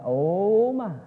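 lightly acted dawning disbelief; astonished Saul. Saul realizing David shared his cave, mildly astonished. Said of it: "He's like".

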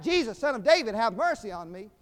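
loud opening call, easing toward the end; retold beggar's cry for mercy. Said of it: "He began to cry out".

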